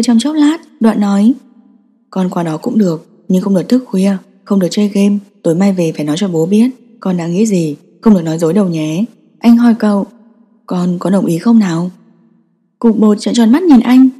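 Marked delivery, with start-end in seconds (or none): 2.1-9.0 a father being firm but kind; father telling his son the rules, low and soft; gentle father. Acted. 10.7-11.9 a father being firm but kind; father telling his son the rules, low and soft; gentle father. Acted. Father asks son to agree.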